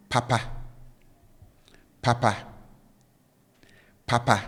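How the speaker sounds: "papa" with both syllables held high. Shown as a demonstration. Teacher showing learners the first Twi word, high-high tone on "papa". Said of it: "tone with which I pronounce both syllables are up".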